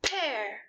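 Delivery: one even beat on "pear"; clapped syllable. Shown as a demonstration. Teacher shows one clap for the word "pear". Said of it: "when we clap the word pear".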